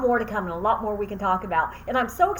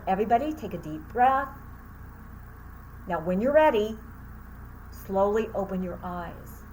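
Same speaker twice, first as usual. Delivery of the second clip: staying calm; 3 dB quieter than usual. Retold or imitated. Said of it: "I tried to stay calm in front of my students".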